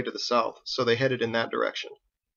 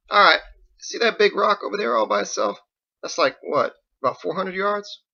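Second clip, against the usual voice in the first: higher and louder, keen; higher, eager voice; excited pointing; 9 semitones higher, 4 dB louder than usual. Acted. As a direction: show off the long shot.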